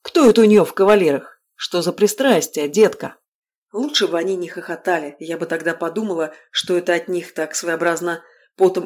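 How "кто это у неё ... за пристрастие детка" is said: loud, sneering bandit taunt; mock her loudly like a street thug; jeering thug. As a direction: bandit jeers at the trapped girl. Thug taunts the cornered girl.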